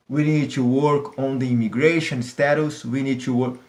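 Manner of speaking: lightly voiced calm statesman, slow with pauses; a hint of a measured president breathing between phrases; Barack Obama. Teacher imitates a president's speech, lightly calm and slow. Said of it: "ele fala calmo".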